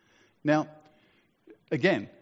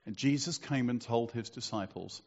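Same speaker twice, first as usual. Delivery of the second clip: measured Bible reading to a congregation; scripture reading. A narrator's reading. Preacher reads the five verses to the congregation, scripture reading. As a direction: read the passage out solemnly, phrase by phrase.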